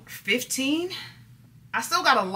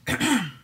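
throat clearing; 4 semitones higher than usual. Real, not acted. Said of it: "The way I just coughed".

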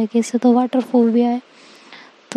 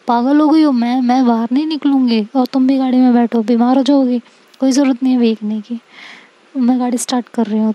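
scolding refusal; faster than usual. Acted. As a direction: snap at her to get back in the car. Seerat scolds Anika, refuses rain.

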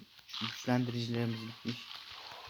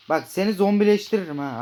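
loud, higher playful threat; hammed-up shark bully; mock threat; 7 semitones higher, 11 dB louder than usual. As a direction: bark a mock threat at the fish.

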